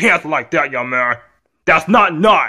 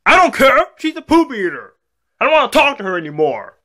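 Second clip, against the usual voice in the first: put-on high-pitched childish protest; bratty outburst; 6 semitones higher than usual. Kid defying dad over Hampton, bratty outburst. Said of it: "you're getting this out of hand".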